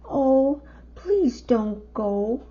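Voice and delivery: wild things beg Max not to leave; pleading monsters. Acted. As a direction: beg him to stay. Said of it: "the wild things cried".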